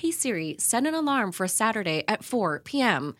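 articulate, like Siri herself. Shown as a demonstration. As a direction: mirror Siri's voice back to her. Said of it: "listen to me better if I was, like, articulate".

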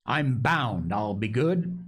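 rambling, earnest castaway confession; lightly voiced, eager to prove his piety. Castaway telling the boy his life story, earnest and rambling.

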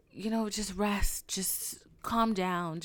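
slow, soothing advice; slow, lightly imitated reassurance; mild calming. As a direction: gently talk someone down, taking time.

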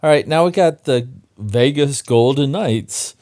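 booming arena announcer intro. Acted. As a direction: hype up the matchup like a ring announcer. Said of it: "I did a little bit of my announcer voice there".

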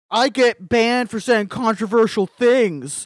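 slow, whiny mock voice; mocking whiny dude. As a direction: whine it like an aggrieved guy. Mocking dudes online.

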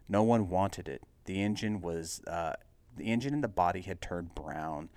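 steady, measured read-aloud narrator; story narration. A narrator's reading. Reader telling the Buick's history, story narration.

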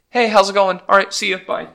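high, breezy passing-by greeting; lightly voiced friendly ghost; casual ghost voice. Ghosts casually visiting, acted.

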